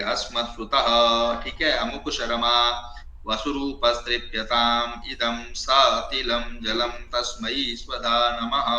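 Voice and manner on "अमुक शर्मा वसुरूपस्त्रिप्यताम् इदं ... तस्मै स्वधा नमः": mantra recitation. Shown as a demonstration. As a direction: intone each syllable deliberately. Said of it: "इस प्रकार से करे".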